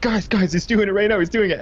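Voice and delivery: high, urgent calling to the class; half-hearted retold shout to classmates; excited mock call-out. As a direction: pitch way up as if yelling for attention.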